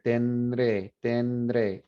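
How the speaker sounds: tendré said with the D slipping in naturally between n and r; pronunciation demo. Shown as a demonstration. Teacher demonstrates tendré for students trying it aloud. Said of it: "Now say this without inserting a D".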